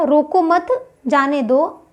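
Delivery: "रोको मत" as one unit, short break, then "जाने दो"; pause after मत. Shown as a demonstration. Teacher repeating the example to explain the mark, pause after मत. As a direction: split the sentence right after मत. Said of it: "रोको मत के बाद में मैंने विराम चिन्ह का प्रयोग किया".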